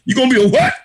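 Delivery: high-pitched disbelieving question; mock incredulous. Imagined listener questions Arnold's dream, mock incredulous. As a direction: shoot up on a baffled "what".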